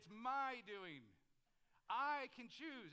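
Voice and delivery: mock declaration. Pastor mocks congregation's reply.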